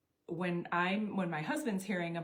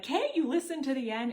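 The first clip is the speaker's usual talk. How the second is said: higher, louder exasperated plea; frustrated; 6 semitones higher, 5 dB louder than usual. Retold or imitated. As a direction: make her just hear it to the end. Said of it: "really frustrated wi-, with me".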